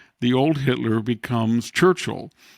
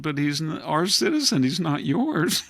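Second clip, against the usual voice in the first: 1 Salvadoran reply; 5 semitones higher than usual. Retold or imitated. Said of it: "And they said".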